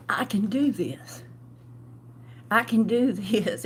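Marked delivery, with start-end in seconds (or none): 0.1-1.2 hushed whisper, talking herself into it; whispered self-talk. Retold or imitated. To herself, deciding to leave with six hundred dollars, whispered. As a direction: whisper it to yourself like a private vow.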